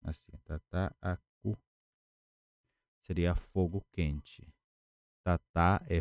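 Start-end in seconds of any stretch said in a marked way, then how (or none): 0.4-1.6 tataku slowed, its middle a held long; slow careful pronunciation. Shown as a demonstration. Teacher modelling the word at the board, slow and careful. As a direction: say tataku slowly, leaning on the long a. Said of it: "É, seria desta maneira".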